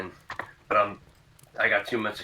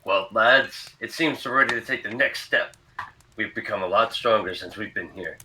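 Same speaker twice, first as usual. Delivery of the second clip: anime hero voice; 4 dB louder than usual. Acted. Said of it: "ready for adventure, anime style".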